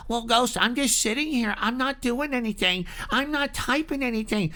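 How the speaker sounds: softly mimicked innocent bystander; quiet, put-on protest of innocence; innocent listener. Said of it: "if you're saying to yourself".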